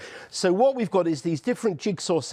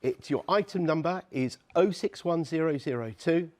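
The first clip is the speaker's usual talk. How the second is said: warm and persuasive. Acted. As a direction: lean in and win the viewers over gently. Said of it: "I just need to speak to the viewers".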